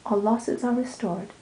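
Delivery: measured, mournful verse reading; sonnet recital. Acted. Reading Shakespeare's sonnet aloud, gentle recital.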